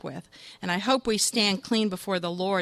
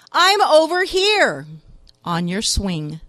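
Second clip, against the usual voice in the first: put-on drunk voice; 8 dB louder, slower than usual. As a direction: deliver the punchline like a drunk. Drunk punchline reply.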